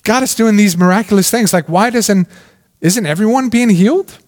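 imitating a reader who cannot believe it; puzzled surprise. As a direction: act out a baffled reader's double take. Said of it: "you're like".

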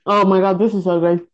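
chewing while talking; speaking through a mouthful; mouth full. Real, not acted. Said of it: "Sorry, I'm eating".

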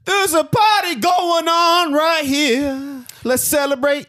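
slow, drawn-out high shout; party hype shout. Acted. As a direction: announce the party like a hype man.

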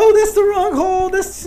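very high hammed-up moaning voice; mock moaning. Coworker pranking a scam caller on the phone, mock moaning. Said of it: "He keeps fucking moaning".

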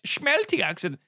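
high, hammed-up Dutch accent; mock Dutch accent. Mocking a film villain's lines, bad Dutch accent. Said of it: "it's almost like someone said".

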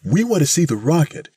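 put-on high, insistent old-lady cry; loud demand. A narrator's reading. Missus Bellows forges ahead of the crowd, demanding loudly.

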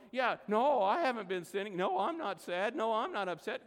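a hint of a guilty kid; mock child denial. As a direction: deny it like a caught toddler. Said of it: "We're like the three-year-old".

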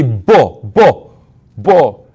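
"bo" said with a firm b sound, imitating an Arab accent; b in place of p. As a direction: repeat "bo", clearly voiced b instead of p. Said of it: "instead of saying po".

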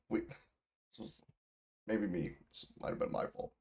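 half-whispered sheepish admission. Real, not acted. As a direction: whisper it, a little embarrassed. Sheepish aside after clearing throat.

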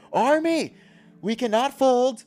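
rally the troops in a lightly mocked commanding voice; rallying commander. Commander addressing his whole army before war, mock-rousing call.

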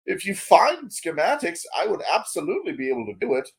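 quick, bright eager gadget maker; fast chirpy excited tinkerer. Acted. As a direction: rattle it off like a thrilled inventor. NPC blacksmith answering the crew.

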